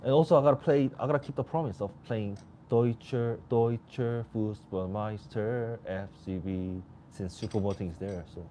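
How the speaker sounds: talking while chewing cheese; words round a bite of food; mouth full. Real, not acted. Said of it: "you guys will hear me, like".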